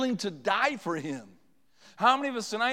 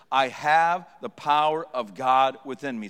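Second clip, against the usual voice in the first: loud, low, measured declaration; nice and clear; 7 semitones lower, 5 dB louder than usual. Shown as a demonstration. Preacher modelling a line for everybody to repeat, loud and clear. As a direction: lead a group recitation, punching each key word. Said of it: "Would you say this, everybody, nice and clear".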